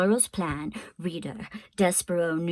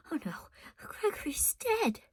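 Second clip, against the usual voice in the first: whispered; 8 semitones higher, 8 dB quieter than usual. A narrator's reading. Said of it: "whispered Despereaux".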